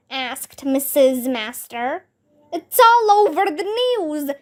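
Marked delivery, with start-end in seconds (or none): 2.5-4.3 high, raised, breathless alarm; alarmed shout. A narrator's reading. Teacher running into class, shouting the news high. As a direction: burst in blurting the bad news. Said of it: "shouted Mister Klutz".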